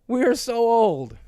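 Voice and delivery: slow and rueful; slow mock lament. Real, not acted.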